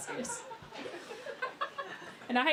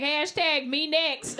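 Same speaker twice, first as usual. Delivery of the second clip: slow, drawn-out eager plea; eager flirt; 3 semitones higher, much slower than usual. Retold or imitated. Comic imagines Leonardo DiCaprio inviting her, slow eager flirt. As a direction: beg for it, shamelessly keen. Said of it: "I'd be like".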